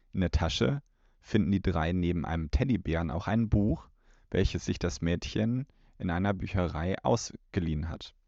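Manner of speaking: measured audiobook blurb reading; steady narrator-style blurb read; blurb read aloud. Acted. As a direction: read it like the back of the cassette. Reads the episode blurb aloud.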